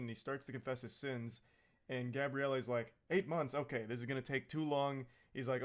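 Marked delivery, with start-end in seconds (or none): 3.1-5.1 exasperated. Retold or imitated. Gabriele impatient.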